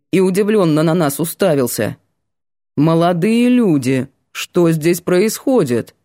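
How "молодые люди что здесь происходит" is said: slow, self-important teacher's question; lightly pompous teacher. Acted. Old history teacher questioning the students, lightly pompous. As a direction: ask it importantly, slowly. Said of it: "важно спросил".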